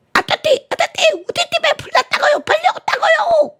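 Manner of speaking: put-on a tongue-tied child begging them to hurry; lisping little kid. The child begs the fire station to come, high lisping wail. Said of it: "이 아이가 혀가 짧아".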